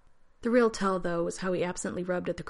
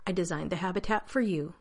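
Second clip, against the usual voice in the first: exaggerated patience. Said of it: "he added with exaggerated patience".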